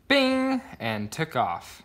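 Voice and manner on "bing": high bing. A narrator's reading. Sound word for getting on bike.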